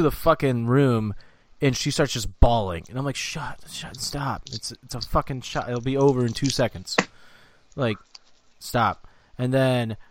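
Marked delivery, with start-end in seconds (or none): 3.2-9.1 hushed scolding. Retold or imitated. Man telling crying Katie to stop, hushed exasperation. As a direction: retell an embarrassed hush, much softer. Retold hushing of crying partner.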